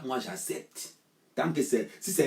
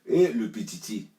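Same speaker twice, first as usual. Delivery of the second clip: slow, louder mock of le petiti, stretching petiti; mocking drawl; 4 dB louder, slower than usual. Mocking the little one in a fight story, a slow scornful drawl.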